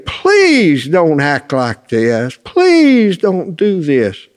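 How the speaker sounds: slow, drawn-out pleading, mildly acted; imitated tearful pleading. Mother begging husband and son to stop, imitated tearful plea. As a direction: imitate a crying mother begging, long stretched "please". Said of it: "will come out of the kitchen crying".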